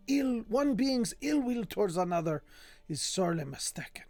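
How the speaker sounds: put-on lilting, accented reading of a learned treatise; affected lecturer's voice; improvised put-on voice. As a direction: read the scholarly text in an odd invented accent. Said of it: "I have no idea what this voice is".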